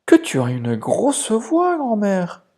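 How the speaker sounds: put-on a little girl puzzled by grandma; surprised girl. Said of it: "en surprise". (la fillette surprise, voix plus aiguë)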